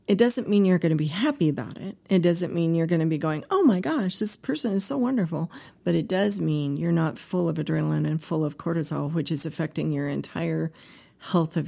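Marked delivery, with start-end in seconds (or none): 3.5-5.5 high, sing-song fake delight; mock gushing. Therapist mocks fake cheer about the boss, sarcastic gush.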